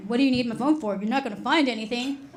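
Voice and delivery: mildly mocked defensive husband. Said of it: "got really defensive".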